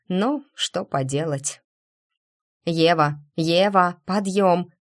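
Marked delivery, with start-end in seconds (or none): 2.6-4.7 calling out. Acted. Настя будит Еву криком.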